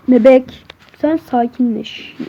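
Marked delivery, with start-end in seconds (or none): 0.1-0.7 loud call. Acted. Calling the in-game baby.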